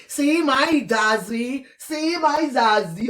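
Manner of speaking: slow, teasing sing-song coo; mocking girl's coo.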